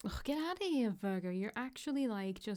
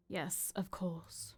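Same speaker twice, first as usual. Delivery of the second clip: whispered; 3 dB quieter, slower than usual. Acted. Soft slow reply.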